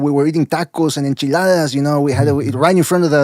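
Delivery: lightly voiced Chicano slang; a light hammed-up Chicano accent; mock Chicano accent. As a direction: lay it on thick, vato-style. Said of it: "you gotta lay it on thick".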